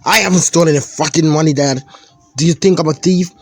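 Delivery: fast, high, loud denial; defensive teen outburst. Acted. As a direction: fire it back, offended. Son denies theft heatedly.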